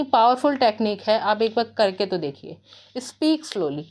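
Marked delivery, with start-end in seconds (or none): 3.0-3.8 very slow, each word stretched out; slow demo. Shown as a demonstration. Teacher to students, saying it very slowly. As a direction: model the slow pace you're asking for.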